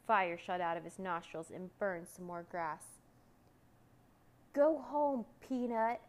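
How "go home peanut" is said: high, loud dismissive roar; dragon's roar. A narrator's reading. Dragon sends the boy away, loud roar. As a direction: roar it out to send someone away. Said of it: "roared the dragon".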